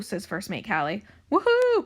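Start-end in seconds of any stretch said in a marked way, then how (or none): 1.3-1.8 high, loud whoop of glee; excited cry. A narrator's reading. Crew cheering at news of treasure, high excited whoop. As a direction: cheer like a whole pirate crew. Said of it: "cries the crew".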